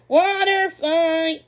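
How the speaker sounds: loud, high, slow playful call; whinny the challenge; excited neigh. Acted. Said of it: "she neighed".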